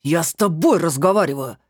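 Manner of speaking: husband shrieking at his wife; shrill yell. A narrator's reading. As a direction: yell at his wife who won't answer. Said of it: "взвизгнул Пётр".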